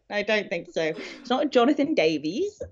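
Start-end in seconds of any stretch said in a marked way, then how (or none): 1.2-2.6 lightly done, hammed-up Welsh accent; bad Welsh accent. Host joking about a Welsh name in a bad Welsh accent. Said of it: "that's my really bad Welsh accent".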